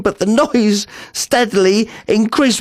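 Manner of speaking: rising panic. Acted. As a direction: repeat it as dread takes hold.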